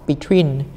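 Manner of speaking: "Between" with a light first syllable and a stressed, falling second. Shown as a demonstration. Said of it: "là những âm hai". (nhấn âm hai của "Between")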